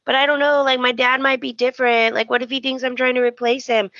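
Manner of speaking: lightly acted anxious rambling; imitated worry. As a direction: voice someone talking through their doubts. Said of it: "Finn's all worried".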